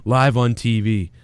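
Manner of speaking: low-pitched, deliberate threat; menacing captor. Acted. Captor threatening his victim live on TV, menacing. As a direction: threaten him in a low show-host voice.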